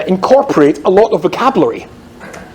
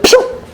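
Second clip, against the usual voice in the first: a quick airy pshoo of a zooming scooter; whooshing scooter noise. Retold or imitated. Storyteller mimics a scooter darting into the pump, whooshing. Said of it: "like this".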